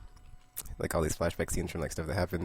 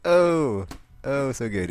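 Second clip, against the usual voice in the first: gushing; 6 semitones higher, 6 dB louder, much slower than usual. Real, not acted. The vlogger gushing over the dialogue.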